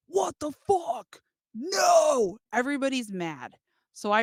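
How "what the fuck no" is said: mock crowd shouting what the fuck, higher; playing the angry crowd, rising into a louder no; outraged crowd yell. Crowd at the show yelling in outrage.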